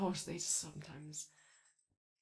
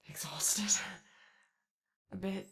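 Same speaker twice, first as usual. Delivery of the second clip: whispered; slower than usual. Acted. Gently pointing out tiredness.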